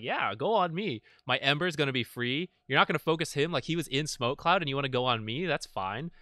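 imitating a carefree, inviting reaction; happily unbothered. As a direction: egg them on, mock-welcoming. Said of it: "totally happy with that".

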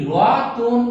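রতন with a vowel parting the joined consonants; রতন said with an added vowel before the n; cluster broken by vowel. Shown as a demonstration. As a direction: split রতন into drawn-out syllables. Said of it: "এখানে যদি আমরা উচ্চারণ করি".

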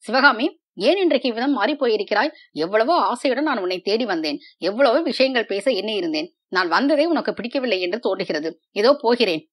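hurt prince losing his temper; mild anger, quick and pressed; angry. Acted. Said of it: "உண்மையாகவே கோபம் வந்ததென்று".

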